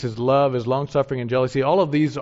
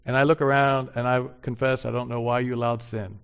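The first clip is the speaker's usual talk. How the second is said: humble prayer. Pretend. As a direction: confess it gently to the Lord. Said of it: "Humility says".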